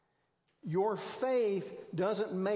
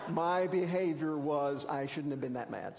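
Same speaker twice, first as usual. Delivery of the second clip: sincere apology; 2 semitones lower than usual. Retold or imitated. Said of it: "It was a real".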